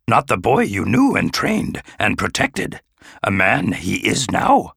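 put-on wise old master, earnest counsel; lightly voiced wise Yoda. Yoda counsels Obi-Wan.

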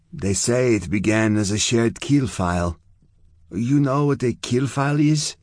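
explain, then check that she follows; Zona, fierce, now explaining. Acted. Zona explaining the walled city to Chia, informative.

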